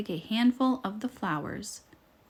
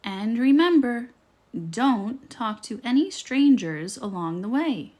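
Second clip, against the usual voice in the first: motherly warning; 2 semitones higher, 5 dB louder than usual. Acted.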